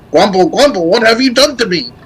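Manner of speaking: high, mumbly skeleton knight grumble; Sir Daniel mumbling. Retold or imitated. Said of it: "Sir Daniel Fortescue goes".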